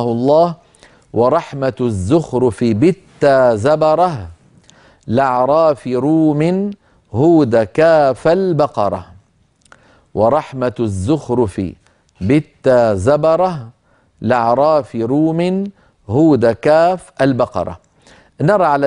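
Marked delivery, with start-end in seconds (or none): 1.1-9.1 slow chanted recitation of the verse; poem recitation. Acted. Recites the poem's verse slowly. 10.1-17.8 measured, drawn-out reading of the verse; poem recitation. Acted.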